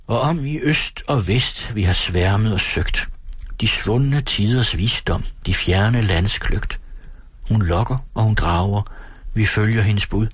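slow, measured verse recitation; sangtekst læst op. A narrator's reading. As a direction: recite the anthem verse, drawing out the lines. Reads the mother's song verse. (langsom, højtidelig oplæsning af sangvers)

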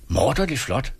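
lightly acted outburst; bursting out. A narrator's reading. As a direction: blurt it out, pitch jumping up. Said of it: "braste ud af Hedvig".

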